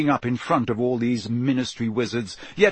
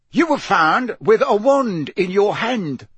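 loud, higher, slow-hammered words; barked accusation; 8 semitones higher, 6 dB louder, slower than usual. A narrator's reading. Mister Diggory accuses the elf over the wand, barking. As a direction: bark it, raised and emphatic. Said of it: "barked Mister Diggory".

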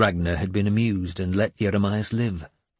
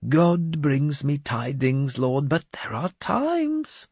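put-on high, slow, grandly pious old madman; a cracked holy man delivering God's message; raised, slow prophet voice; mad bishop voice; 6 semitones higher, slower than usual. Jeremias confides.

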